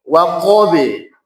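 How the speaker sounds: WAQABI with echoed b leaning to e; slow waqabi, ending in a light 'be'; imalah bounce. Shown as a demonstration. Teacher models qalqalah, waqabi released toward e. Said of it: "condongnya ke imalah kubro".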